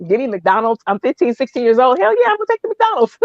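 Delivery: comic excitement climbing high and fast; hammed-up teenage enthusiasm; eager acceptance. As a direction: build to a high, quick squeal. Acts out her eager teenage self.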